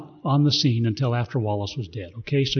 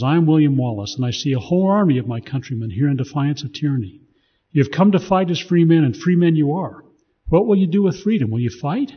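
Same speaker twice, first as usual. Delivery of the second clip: loud, higher rallying speech to the troops; rally the troops like William Wallace; rousing speech; 3 semitones higher, 5 dB louder than usual. Acted. Reading Wallace's battle speech aloud.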